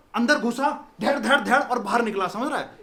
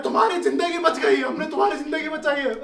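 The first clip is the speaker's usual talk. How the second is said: shouting back; 5 semitones higher than usual. Retold or imitated. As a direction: shout back that you saved his life. Police shouting back at him.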